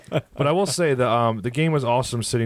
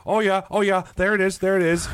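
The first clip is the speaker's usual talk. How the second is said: high, mock-excited fan cheer; a high, silly impression of a cheering Toronto fan; mocking Leafs fan; 10 semitones higher than usual. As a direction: ham up a gloating rival fan. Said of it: "He would go like".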